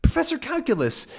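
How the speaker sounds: high, delighted praise; overjoyed. Acted. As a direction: thank him in pure joy. Tintin overjoyed.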